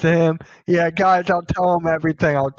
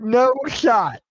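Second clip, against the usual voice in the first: friend shouting no shot; mock shout of disbelief; retold shout; 3 semitones higher than usual. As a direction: yell the friend's no shot back. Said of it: "He went".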